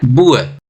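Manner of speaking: बुअर with long oo gliding into 'अर'; clear 'अर' ending. Shown as a demonstration. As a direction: finish बुअर on a falling 'अर'. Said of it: "इसमें भी अर sound create हो रहा है". (बुअर के अंत में साफ़ 'अर')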